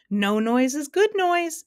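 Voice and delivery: high, loud, slow crow; merry drawn-out cheer; happy exclamation. A narrator's reading. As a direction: chime in gleefully, dragging out the joke. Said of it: "exclaimed the humbug happily".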